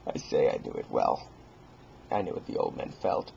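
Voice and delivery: dropping to a whisper; whispered dread; hushed whisper. Acted. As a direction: confide it secretly.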